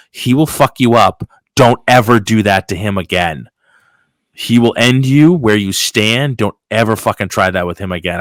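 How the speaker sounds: retold berating. Boss warns off the coworker from the other room, retold berating. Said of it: "He was berating him".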